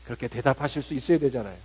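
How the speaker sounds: ordinary talk, nothing marked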